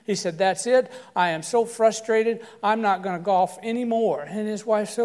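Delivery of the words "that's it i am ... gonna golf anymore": fuming. Retold or imitated. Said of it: "he was all fuming".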